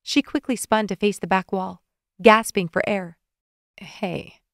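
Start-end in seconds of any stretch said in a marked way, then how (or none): 3.8-4.4 1 concerned. A narrator's reading. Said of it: "with concern in his voice".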